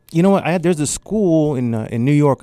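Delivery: high, keen mentor voice; mentor's eager pitch. Retold or imitated. Mentor urging him toward a New York school, eager. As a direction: sell it like a mentor who believes in you.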